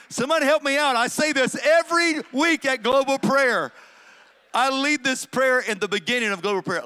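high, loud call to the congregation; loud plea. Real, not acted. Preacher calls to the congregation for help, loud and high. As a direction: appeal to the room for rescue.

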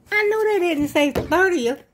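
amused. Real, not acted. Laughs at the card's joke.

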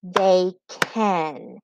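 "They can" as two separate beats; split into syllables. Shown as a demonstration. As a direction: count out "They can" one syllable at a time. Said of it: "Second syllable".

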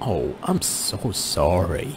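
slow, sincere "Oh, I'm so sorry" with sympathy drawn out; heartfelt, slow "Oh, I'm so sorry" to someone grieving; with feeling. Shown as a demonstration. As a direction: let real sympathy carry "Oh, I'm so sorry". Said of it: "كأنه في feeling".

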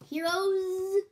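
high, loud buzzy fly shout; Fly Guy cheer. Acted. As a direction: shout it like a tiny excited fly.

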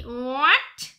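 loud, drawn-out astonishment; real happy shock, voice jumping up; astonished. Real, not acted. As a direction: gasp it out in disbelief, slow and loud. Surprise at the anniversary message.

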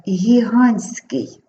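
"гігантський" drawn out, T dropped, hihan-skyi; simplified pronunciation. Shown as a demonstration. Teacher modelling for pupils, "гігантський" without the T. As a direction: say "гігантський" slowly with N straight into SK. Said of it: "вимовляємо як ски".

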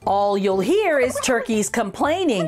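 lively read-aloud storytelling voice; story narration. A narrator's reading. Teacher reading a funny turkey book to children, lively storytelling. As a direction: read it like a bouncy rhyme for kids.

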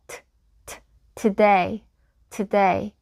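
"today" with the tongue tip kicking off the palate on t; crisp isolated t, then a slow "today" as tuh-day; tapped t sound. Shown as a demonstration. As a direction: demonstrate "today" with a reduced first vowel. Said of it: "살짝 차고 와보시겠어요".

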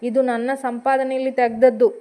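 mildly angry complaint over the wrecked car; husband starts a mild angry rant; angry scolding. Acted. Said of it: "ಸಿಟ್ಟಿನಲ್ಲಿ ರೇಗಿದ".

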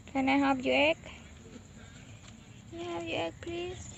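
soft coaxing. Real, not acted. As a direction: coax gently in a small high voice. Asking a hen for her egg. (ขอร้องเบา ๆ เสียงสูง อ้อน ๆ)

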